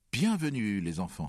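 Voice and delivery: high, loud welcome that falls away; father's welcoming cry. A narrator's reading. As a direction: call out a big hearty welcome to the children. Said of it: "s'écria père". (cri de bienvenue du père, fort et aigu)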